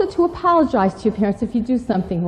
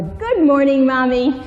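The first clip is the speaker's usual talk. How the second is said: pleasant greeting; 3 semitones higher, 3 dB louder than usual. Shown as a demonstration. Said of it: "the very pleasant".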